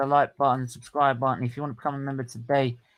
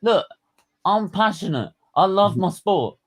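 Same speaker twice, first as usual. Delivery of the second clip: higher, heated self-defence; half-mock passionate fan; passionate fan pleading; 6 semitones higher than usual. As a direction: plead your love for the sport, worked up. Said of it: "I'm going mad".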